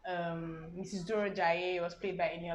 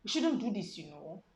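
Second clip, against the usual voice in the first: mocking O C. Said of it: "the only thing he did was put "you know".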